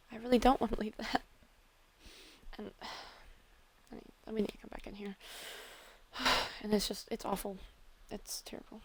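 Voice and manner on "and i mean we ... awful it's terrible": much softer, barely voiced; anxious whisper. Apologizing to friend after panicking, in a whisper. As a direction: whisper the worry, nearly gone. Distraught character after emotional outburst.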